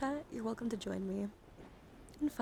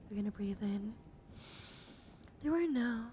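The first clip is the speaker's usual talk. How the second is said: guided breathing. Pretend. Leading a calming breathing exercise.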